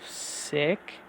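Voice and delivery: a breathless whispered aside; a soft whispered sneer. Acted. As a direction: breathe the word out with no voice. Spat out alone after a question.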